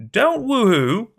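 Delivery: loud, high, slow tearful protest; tearful cry back. Acted. Dangling over the river, yelling back at Bruno in tearful panic. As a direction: yell back through tears. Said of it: "I cried back, hoarse, tears falling".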